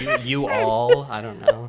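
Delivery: loud, high burst of laughter; laughing. Real, not acted. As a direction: crack up mid-word. Laughing at her own story.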